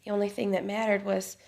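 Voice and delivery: soft, with long pauses; tender, hushed recollection. Acted. Wife remembering marrying the man she loved, hushed. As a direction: let it sink to a near hush.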